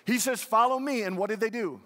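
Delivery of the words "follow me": "Follow me" louder and higher, stress on "Follow"; emphatic repeat. Shown as a demonstration. Preacher repeating Jesus's call to drive it home, emphatic. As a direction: hit "Follow" hard as the answer. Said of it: "What's he say?".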